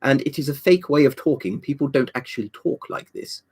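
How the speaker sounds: lightly put-on posh English accent; a touch of fake upper-class English. Shown as a demonstration. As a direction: say it like an old BBC posh English speaker. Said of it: "think of a posh English person".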